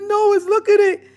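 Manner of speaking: high frightened plea; scared pleading. Retold or imitated. Sister pointing the dog out to brother, scared. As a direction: beg him to look at it.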